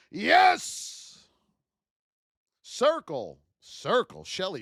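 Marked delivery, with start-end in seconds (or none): 0.1-1.3 excited cheer. Real, not acted. Cheering a trade hit.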